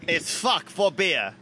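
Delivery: slow mock Aussie accent; hammed-up Australian accent. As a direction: drawl it like a caricature Australian.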